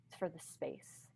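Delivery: whispered. Real, not acted. Soft repeated emphasis.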